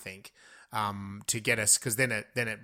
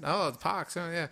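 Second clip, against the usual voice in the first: schoolgirl voice; 7 semitones higher than usual. Acted. Voicing the girl and teacher.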